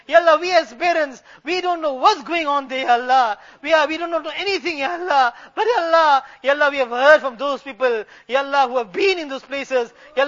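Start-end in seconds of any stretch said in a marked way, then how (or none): 3.6-6.2 real tears breaking through the words; tearful pleading. Real, not acted. Parent confessing helplessness to Allah, tearful pleading. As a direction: plead through rising sobs.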